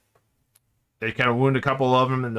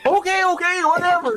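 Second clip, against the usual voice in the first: high breezy okay; dismissive guard. Acted. Guard waving off the news, high breezy. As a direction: wave it off lightly. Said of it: "It's like".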